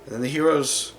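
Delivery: dramatic fantasy storyteller, with weighted pauses; story narration. Acted. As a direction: tell the heroes' fall in measured phrases. Narrates a dark fantasy backstory.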